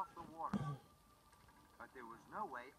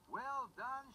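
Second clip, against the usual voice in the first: cheering shout; 9 semitones higher, 4 dB louder than usual. Acted. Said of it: "shouted everyone".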